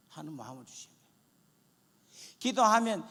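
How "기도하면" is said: normal talking voice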